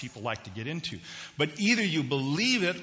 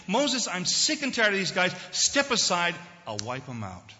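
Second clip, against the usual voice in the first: acted exasperated tirade, building higher and louder; fed-up God; 3 semitones higher, 4 dB louder than usual. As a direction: pile up grievances, then drop for the final threat. Acts out God fed up with Israel.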